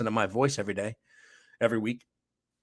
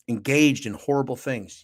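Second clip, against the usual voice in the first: whisper. Acted. Secret misdeeds, hushed.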